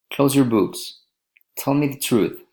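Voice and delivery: high start, dropping on "books" and "truth"; falling intonation. Shown as a demonstration. Teacher models commands, falling on "books" and "truth". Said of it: "falling intonation".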